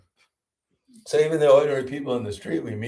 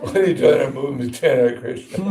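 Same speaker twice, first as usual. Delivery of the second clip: amused, hammed-up challenge; laughing mock challenge; 2 semitones higher than usual. Parodying a bad street approach, laughing mock challenge. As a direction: play the tactless preacher through laughter.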